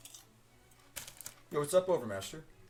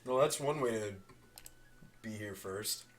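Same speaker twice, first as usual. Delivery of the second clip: chewing popcorn while talking; mouth full. Real, not acted. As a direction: talk through a mouthful of popcorn. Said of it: "Sorry for the crunching noises".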